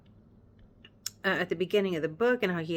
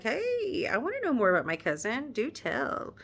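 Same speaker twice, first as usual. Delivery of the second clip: eager Colonel; 3 semitones higher than usual. Retold or imitated. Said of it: "Colonel Fitzwilliam is like".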